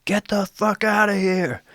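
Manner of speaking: high, slow, mocking old-man shout; imitated angry yell. Old landowner chasing off the rock picker, mock yell. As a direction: bark it out like a furious old man. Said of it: "And he yells at me".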